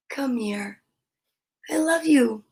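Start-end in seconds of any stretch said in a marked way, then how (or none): 0.1-0.8 whisper. Real, not acted. Whispered coax to dog.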